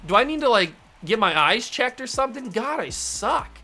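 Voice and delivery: high-pitched frustrated outburst, loud at first; exasperated, starting loud and tailing off; exasperated self-reproach. Real, not acted. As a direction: rail at yourself for missing. Missed an easy home run.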